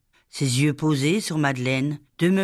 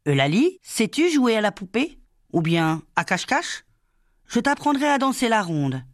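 put-on cheerful young teacher; 2 semitones higher than usual. Young teacher coaxing the shy girl Laly, cheerful and lively. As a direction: brighten up to win over a timid child.

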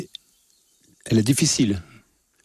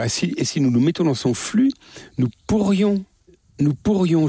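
getting carried away; 6 semitones higher than usual. Real, not acted. Answering the interviewer's question, carried away, higher excited voice. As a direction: voice climbing higher with fervour. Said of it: "Je m'exalte un peu en vous parlant".

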